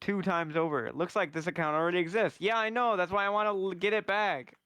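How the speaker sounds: frustrated. Real, not acted. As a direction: vent at the screen, fed up. Frustrated at account error.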